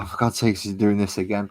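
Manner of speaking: lightly acted exasperation; exasperated viewer. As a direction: imitate a fed-up viewer.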